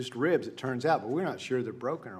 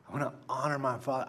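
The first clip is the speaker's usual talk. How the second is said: ordinary talk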